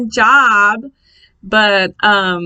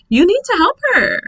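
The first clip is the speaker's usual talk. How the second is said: higher-pitched, moderately raised voice; retold yelling; 10 semitones higher, 3 dB louder than usual. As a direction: re-enact yelling across a room for help. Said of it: "I'm over here yelling".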